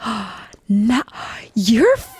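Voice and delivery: shocked discovery that she's funny; surprised friend. Retold or imitated. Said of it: "she was like, gasps".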